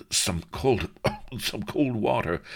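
high, coughing recoil; gagging politely at a stench; choking cough. A narrator's reading. Recoiling from smelly feet, coughs.

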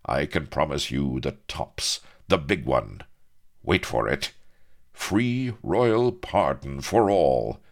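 dramatic pause, then loud slow reveal; milk the suspense; impressive build-up. A narrator's reading. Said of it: "he paused impressively".

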